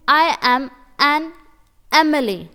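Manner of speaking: very slow, each word spaced; slow read-aloud. Shown as a demonstration. Teacher reads example sentence slowly. (बहुत धीरे पढ़ना)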